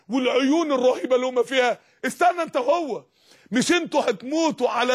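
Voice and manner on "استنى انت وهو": higher-pitched order to halt; peremptory call to wait; commanding divine order. Acted. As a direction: stop the condemned with a sharp command. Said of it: "ده بيقول للي بيترموا في النار".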